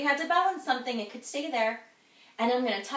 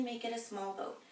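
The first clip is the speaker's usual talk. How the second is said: small boat voice; 2 semitones lower, 10 dB quieter than usual. Shown as a demonstration. Kids yoga, small boat.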